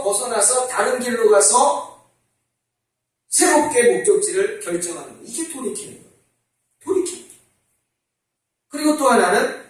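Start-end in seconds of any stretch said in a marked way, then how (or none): 5.2-7.4 soft repeat. Shown as a demonstration.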